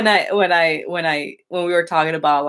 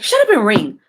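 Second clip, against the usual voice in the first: annoyed snap; 5 semitones higher, 4 dB louder than usual. Retold or imitated. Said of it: "I'm like".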